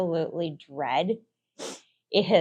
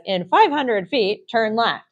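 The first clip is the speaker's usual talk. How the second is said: gps voice; 3 semitones higher, 4 dB louder than usual. Retold or imitated. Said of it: "The G P S says".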